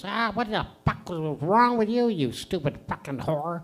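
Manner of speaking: parrot voice. Acted. Parrot asked if it learned its lesson, squawking abuse. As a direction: squawk into a cursing rant. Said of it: "He goes".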